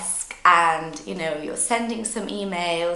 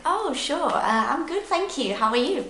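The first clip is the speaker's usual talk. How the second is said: high, lilting polite answer; friendly reply; 8 semitones higher than usual. Acted. Learner replying once the question is clear, friendly.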